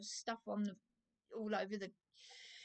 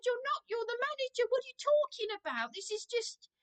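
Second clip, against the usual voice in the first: raised, heated reenactment of shouting at the manager; indignant mock shout, higher pitched; retold yelling; 7 semitones higher than usual. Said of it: "I started yelling down the phone".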